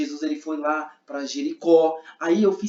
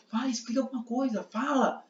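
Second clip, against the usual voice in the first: high-pitched, softer pushy urging; insistent demand; 6 semitones higher, 6 dB quieter than usual. Shown as a demonstration. Men demanding that Jesus explain himself, insistent. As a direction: press for an explanation with raised pitch. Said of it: "eles estavam".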